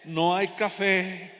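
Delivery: drawn out, every word laid down; slow saying. Shown as a demonstration. Preacher coaching sisters what to tell their husbands, very slow. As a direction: savour each word of the proverb slowly. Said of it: "dígale".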